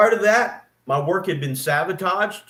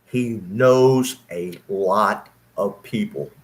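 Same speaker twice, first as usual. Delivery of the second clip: ominous warning; 8 semitones lower, much slower than usual. Retold or imitated. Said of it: "I was told over and over".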